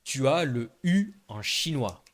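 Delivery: U said as French "ou"; Chinese U. Shown as a demonstration. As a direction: round "U" into a French "ou". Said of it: "il y a un U en chinois".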